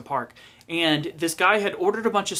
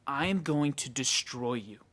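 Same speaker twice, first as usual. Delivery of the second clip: slow, softer retold threat; mock threat; 6 dB quieter than usual. Angry customer threatening the store clerk, slow mock menace. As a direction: deliver the threat slowly and quietly.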